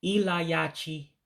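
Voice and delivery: Ilayachi said slowly in clear syllables; model pronunciation. Shown as a demonstration. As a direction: repeat Ilayachi slowly for the learner. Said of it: "One more time".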